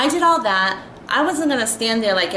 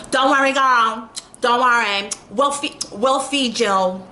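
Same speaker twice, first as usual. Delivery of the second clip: mock ghetto talk; 4 semitones higher than usual. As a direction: parody her condescending tone. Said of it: "talking to me, like, so ghetto".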